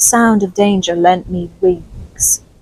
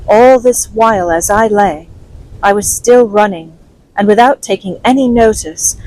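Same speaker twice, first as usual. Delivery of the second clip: steady storyteller reading aloud; story narration. A narrator's reading. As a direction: read it like an audiobook chapter. Reads Treasure Island chapter aloud.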